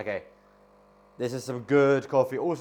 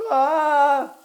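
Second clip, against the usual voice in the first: sharp high sneeze burst; 11 dB louder than usual. Real, not acted. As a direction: sneeze suddenly. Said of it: "I got the sneezes".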